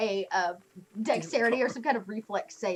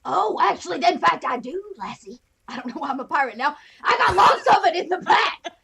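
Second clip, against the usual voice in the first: put-on drunken pirate; 4 semitones higher, 4 dB louder than usual. Old driver turned drunken pirate offering liquor. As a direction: slur it like a drunken buccaneer. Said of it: "You're talking to a crazy drunken pirate".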